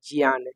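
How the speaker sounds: ज्ञान said carefully as gyaan; teacher showing the correct ज्ञान; pure pronunciation. Shown as a demonstration. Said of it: "शुद्ध उच्चारण वो ज्ञान है".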